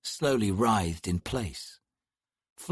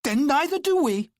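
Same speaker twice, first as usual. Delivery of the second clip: snapped back, high and louder; 5 dB louder than usual. Acted. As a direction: bite the words off defiantly. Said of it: "the sister snapped".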